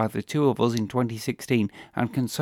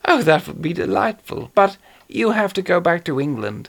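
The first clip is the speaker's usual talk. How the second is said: lightly voiced suave villain; a hint of a genteel British horror actor; Peter Cushing voice; 5 semitones higher, 8 dB louder than usual. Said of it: "Peter Cushing as Major Benedek".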